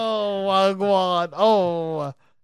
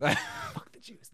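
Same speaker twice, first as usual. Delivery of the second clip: mock provocation; 6 dB quieter, much slower than usual. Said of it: "No, I'm kidding".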